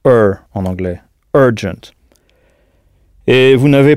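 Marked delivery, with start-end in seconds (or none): 0.1-0.3 er, the English r-coloured vowel; English er sound. Shown as a demonstration. Teacher explaining U R to learners, English er sound. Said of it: "U R se prononce généralement". 1.3-1.9 urgent with er vowel, ER-jent; English urgent. Shown as a demonstration. Teacher repeating for learners, urgent with English er. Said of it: "notez bien la prononciation".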